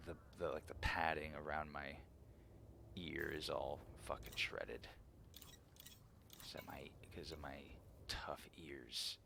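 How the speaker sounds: soft whispered aside; whispering. Real, not acted. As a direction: whisper it under your breath. Whispered self-deprecating aside.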